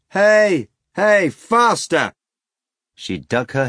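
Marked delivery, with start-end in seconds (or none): 0.1-2.1 high, loud, slow spurring cry; urging on. A narrator's reading. Natasha spurs the hog, loud cry. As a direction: drive the hog on.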